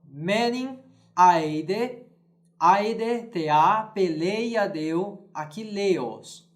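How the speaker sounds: chanted Greek verse, syllables held and stretched; Greek verse recitation. Shown as a demonstration. Teacher reciting the Iliad's opening to students, chanted. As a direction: sound out the Homeric line like an old singer.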